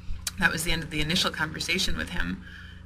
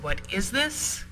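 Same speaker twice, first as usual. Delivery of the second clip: raised, upset "What is this?" said slowly and high; 5 semitones higher, slower than usual. Retold or imitated. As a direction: demand "What is this?" with rising disbelief, slowly. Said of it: "really upset and said".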